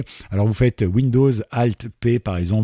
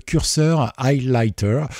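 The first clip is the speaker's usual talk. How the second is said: French accent on English; 3 semitones higher, much slower than usual. Real, not acted. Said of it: "avec mon accent".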